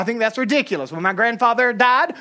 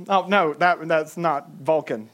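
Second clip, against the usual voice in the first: ordinary talk, nothing marked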